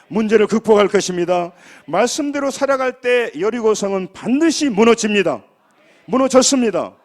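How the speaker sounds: loud, emphatic pulpit declaration, building; forceful sermon climax, rising in power; preaching at full force. Real, not acted.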